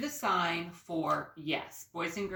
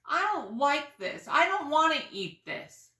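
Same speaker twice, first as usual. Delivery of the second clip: imitating a child; 10 semitones higher, 5 dB louder than usual. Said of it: "and we say".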